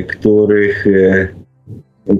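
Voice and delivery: ordinary talk, nothing marked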